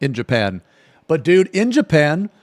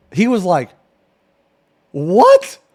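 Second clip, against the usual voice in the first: ordinary talk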